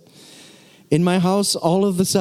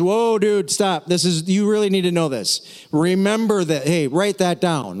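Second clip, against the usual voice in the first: excited urging; 2 semitones higher than usual. Retold or imitated. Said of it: "that means".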